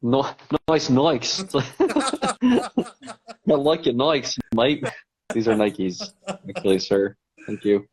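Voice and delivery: laughing, lightly put-on Aussie voice; playful Aussie mimic, half laughing; Australian accent. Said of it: "Australians calling them Nikes".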